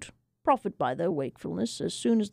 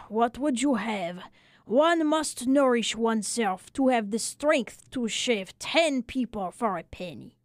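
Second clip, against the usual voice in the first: lightly voiced little French barber, weary; a hint of a tired old barber grumbling; 2 semitones higher, slower than usual.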